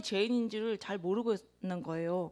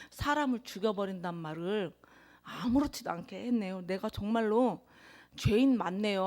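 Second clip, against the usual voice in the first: prayer; 2 semitones lower than usual. Acted. Prays aloud.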